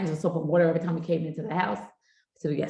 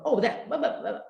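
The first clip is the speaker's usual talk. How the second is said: high, laughing mock skim-reading; imitating a husband's quick skim of the news; speed-reading mumble; 3 semitones higher than usual. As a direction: rattle through it like flipping a paper, giggling. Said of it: "he'd go".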